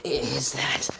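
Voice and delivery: breathless hushed whisper, barely voiced; worried onlookers whisper as the supernova appears; awed whisper. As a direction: whisper it in disbelief.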